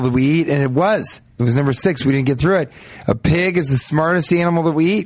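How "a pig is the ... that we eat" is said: put-on prove your point in a country western accent. Guest proving his pig point to the host, country western accent. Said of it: "go into country western accent".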